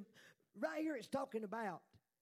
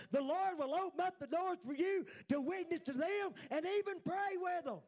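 fervent raised preaching; preaching shout; 4 semitones higher than usual. Real, not acted. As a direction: build it up, full voice. Preaching climax.

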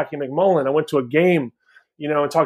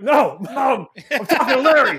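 put-on higher whiny teenage protest to mom; whiny teen son; 10 semitones higher than usual. Son on the phone protesting to mom, higher and whiny. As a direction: play the annoyed kid brushing off his mom, pitched up. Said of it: "I'm like".

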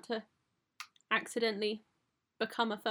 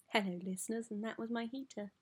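chirpy radio presenter greeting; radio host voice; 4 dB quieter than usual. Shown as a demonstration. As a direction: announce it like a DJ. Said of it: "That's what you have to say".

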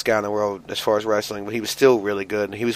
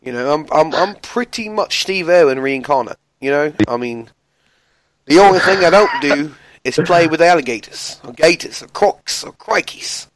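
higher-pitched, hammed-up Australian accent; bad Australian accent; 5 semitones higher than usual. Host defends his mocked impression to co-host, hammed-up Australian accent. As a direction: put on a cocky, cartoonish Australian accent. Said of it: "my Australian accent is pretty on".

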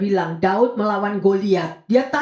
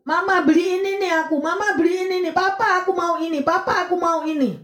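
put-on higher, pestering kid begging for toys; whining child; 6 semitones higher than usual. Preacher voicing a child pestering parents, higher nagging whine. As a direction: nag like a child who wants everything. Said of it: "Anak ini terus ganggu orang tuanya".

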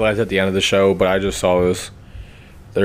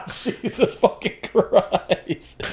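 laughing; 3 dB quieter, much slower than usual. Real, not acted. Cracking up at whisper bit.

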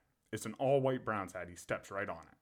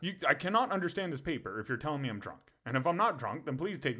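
laughing through it; 4 semitones higher than usual. Real, not acted. Laughing while retelling his argument.

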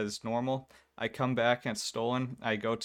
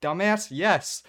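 mock annoyed yes; 8 semitones higher, 7 dB louder, slower than usual. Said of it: "I'm like".

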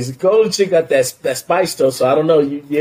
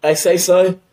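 mock New York accent, pitched up; 4 semitones higher, slower than usual. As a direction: put on a New York street voice. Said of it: "could be a heavy New York accent".

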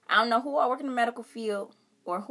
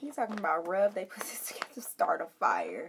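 hushed, laughing whisper; 5 semitones lower, 8 dB quieter than usual. Real, not acted. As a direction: giggly gossip whisper. Gossiping aside off stream.

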